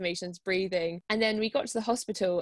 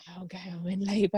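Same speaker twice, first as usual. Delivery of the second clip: mumbled, strained attempt at talking; barely able to speak. Woman in labour telling the desk guy, barely able to speak. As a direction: struggle to get the words out. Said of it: "like, couldn't speak".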